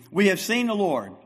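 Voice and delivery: We have seen the Lord told as eager good news; excited friends' news. Retold or imitated. Apostles telling Thomas, mildly excited. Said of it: "Ten of your best friends ... say to you".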